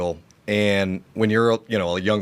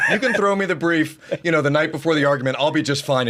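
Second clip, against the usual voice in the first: laughing mock swagger; 6 semitones higher than usual. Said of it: "I was like".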